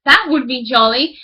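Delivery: delighted miller. Acted. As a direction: exclaim with glee. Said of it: "cried the miller".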